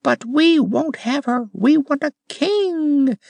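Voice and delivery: high rose demanding a king; exclaimed. A narrator's reading. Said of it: "exclaimed a Jacques Rose".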